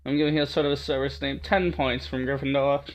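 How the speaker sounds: cool, aloof British warrior; British accent. Acted. Warrior woman coldly refusing the girl, British accent. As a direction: dismiss her coolly in British tones. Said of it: "so good to speak this British accent".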